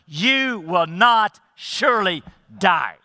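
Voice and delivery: slow, emphatic denial; measured, deliberate emphasis on each word. Retold or imitated. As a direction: spell it out slowly and firmly. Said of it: "is very emphatic".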